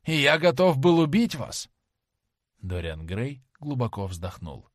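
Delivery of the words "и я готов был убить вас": horrified outcry. A narrator's reading. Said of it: "воскликнул он".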